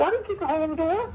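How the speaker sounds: high, fast, lightly strained denial; defensive squeak when retelling his own words; squeaky denial. Retold or imitated. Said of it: "his voice gets all low and squeaky".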